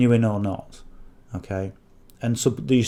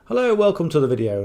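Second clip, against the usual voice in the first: higher, fast, stiff read-off greeting; mock scripted greeting; 6 semitones higher, faster than usual. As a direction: parody someone reading a script to camera. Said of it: "if I'm looking at a script".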